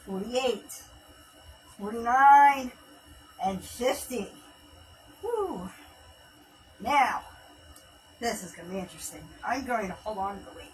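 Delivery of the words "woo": excited whoop. Real, not acted. Cheer after finishing the set.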